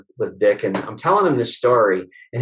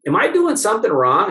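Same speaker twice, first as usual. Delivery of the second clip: higher, pleading question; mock worried asking; 8 semitones higher than usual. Chiropractor anxiously asking his patient, mock worried. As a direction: fret at her lightly.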